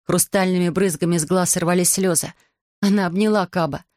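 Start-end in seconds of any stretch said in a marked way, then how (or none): none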